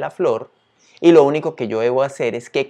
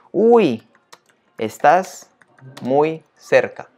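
playful feedback; 3 semitones higher, 4 dB louder, much slower than usual. Pretend. Reads playful feedback text aloud.

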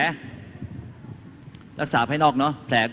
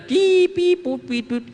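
high-pitched squealing beeps, long then short; imitated ringing in the ears. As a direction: mimic piercing ear noise. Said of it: "เสียงในหู". (เลียนเสียงวี้ดแหลมในหู)

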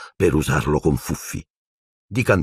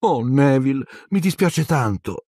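put-on high, sorry girl's voice; disconsolate apology; 8 semitones higher than usual. A narrator's reading. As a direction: lament in a higher pitch, full of regret. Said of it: "in tono sconsolato". (scuse sconsolate, voce acuta)

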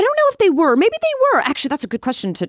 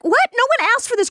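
mock exasperated self; 13 semitones higher than usual. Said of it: "I was like".

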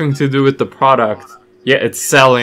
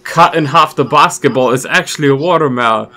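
mock ad voice; 5 dB louder than usual. Parodying an Old Spice advert.

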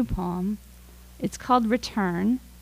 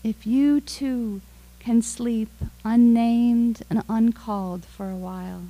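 poem reading. Real, not acted. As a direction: offer each line as a small meditation, unhurried. Reads a poem aloud.

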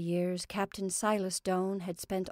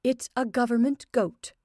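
tense, higher and louder; 4 semitones higher, 6 dB louder than usual. Acted. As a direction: say government goat tightly, nerves on edge. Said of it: "in a tense voice".

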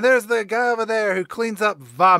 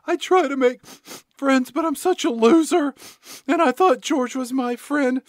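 mock moping; 9 semitones higher, 5 dB louder than usual. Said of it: "crying and moping".

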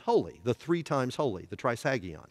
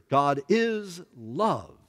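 slow scripture read; 3 semitones higher, much slower than usual. Shown as a demonstration.

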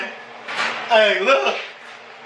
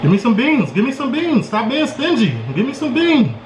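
playful demand; 2 semitones higher than usual. Pretend. Playfully demanding beans from the plate.

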